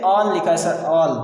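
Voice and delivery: "all" with an open AA vowel, as pupils misread it; children's wrong ALL. Retold or imitated. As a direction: quote pupils saying "all" as "aal". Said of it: "वो बच्चे कहते हैं".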